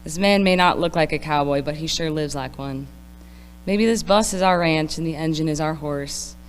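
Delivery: put-on poem read in a country accent; steady recital with a country twang. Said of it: "read this in a country accent".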